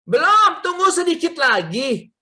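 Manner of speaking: high, loud call back easing down; mock wife's shouted reply; imitated wife. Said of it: "istri saya bilang apa?".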